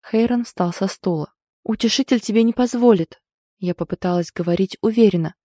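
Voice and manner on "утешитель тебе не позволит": trembling voice. Acted. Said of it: "но мой голос дрогнул".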